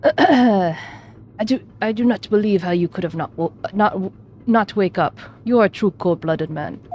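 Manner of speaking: a steadier go at the Russian interrogator; second try Russian accent. Acted. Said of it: "I'll just do my best".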